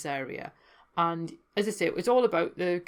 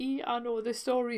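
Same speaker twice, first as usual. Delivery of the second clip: higher-pitched little burst of recognition; mock-excited aside in a raised pitch; delighted recognition; 6 semitones higher than usual. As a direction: re-enact a pleased "ee" moment, pitched up. Acting out her delighted recognition.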